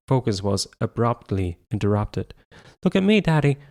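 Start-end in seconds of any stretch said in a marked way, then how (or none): 2.8-3.6 put-on high, loud excited child yelling; child's scream. A narrator's reading. Little boy screaming for his dad's attention. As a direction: shout it like a kid showing off. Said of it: "David screamed".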